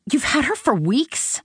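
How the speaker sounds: high squeaky question; squeak. A narrator's reading. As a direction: squeak it out in shock. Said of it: "I squeaked".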